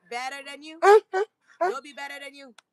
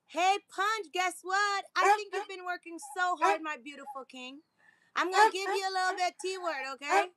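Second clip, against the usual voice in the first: sweet pet talk; 6 semitones higher than usual. Real, not acted.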